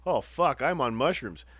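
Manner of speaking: sudden realization. Retold or imitated. Rider retells realizing he is high, mock-alarmed exclamation. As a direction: act out it hitting you all at once. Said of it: "it all just hit me".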